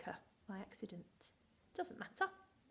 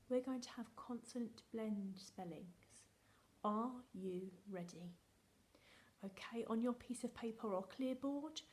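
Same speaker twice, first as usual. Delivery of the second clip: hushed, secretive whisper to the class; playful conspiratorial whisper; dramatic whisper. Acted. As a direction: let them in on a secret, whispering. Teacher whispers the test setup.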